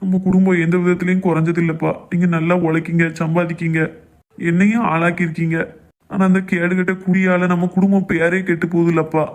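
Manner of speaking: usual speaking voice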